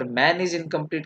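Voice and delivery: "man is incomplete" run together as its own sentence; one closed phrase. Shown as a demonstration. Teacher shows the girl's version, "man is incomplete" as one slow phrase. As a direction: begin afresh on "man", slowly to "incomplete". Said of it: "के बाद लगाया full stop".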